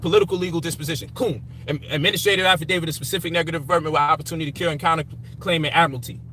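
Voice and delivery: quick listing of legal terms, lightly performed; rattling off legal jargon. Retold or imitated. Retelling what he told critics, rattling off jargon. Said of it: "I said".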